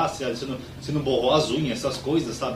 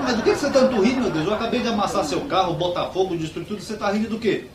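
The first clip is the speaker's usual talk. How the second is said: exasperated anger; 5 semitones higher, 3 dB louder than usual. Acted. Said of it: "Você não viu que eu tô nervoso?".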